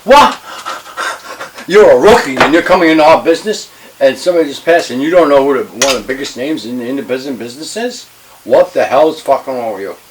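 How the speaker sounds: loud, high, furious re-enacted tirade; explosive disbelief turning into a shouted dressing-down; hot-tempered outburst. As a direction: bawl out a rookie at full volume. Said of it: "I was hot-tempered".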